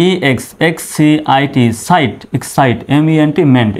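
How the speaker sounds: "ই এক্স এক্স সি আই টি, সাইট" spelled as separate letters, then the syllable joined. Shown as a demonstration. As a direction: break the word into letters and syllables. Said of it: "এভাবে ভেঙে ভেঙে উচ্চারণ করবেন". (অক্ষর ভেঙে ভেঙে বানান করে উচ্চারণ)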